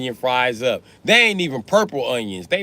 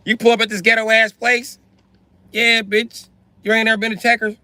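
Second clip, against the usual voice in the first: snooty friend voice; 11 semitones higher, 4 dB louder than usual. Retold or imitated. Voicing a snobby friend.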